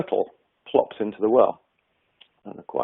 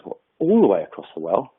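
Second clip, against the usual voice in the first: frog voice. Acted. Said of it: "And the frog says".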